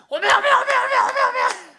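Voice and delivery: high, loud Jeolla oh-my cries, laughing; Jeolla exclamation. Retold or imitated. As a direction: shriek 오메 like a surprised Jeolla mother-in-law. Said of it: "전라도 분들이 입에 뱄어, 오메, 오메 소리가". (놀란 장모님의 높고 큰 전라도 사투리 오메)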